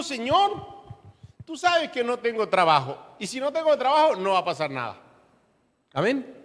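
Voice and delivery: high, whiny imitation of a faithless prayer; mock hopeless prayer. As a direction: mimic someone praying without faith. (imitando una oración sin fe, aguda y quejosa)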